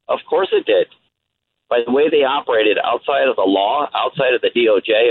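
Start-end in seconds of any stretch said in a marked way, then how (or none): 0.1-0.9 indignant. Real, not acted. Caller indignant at IG claim.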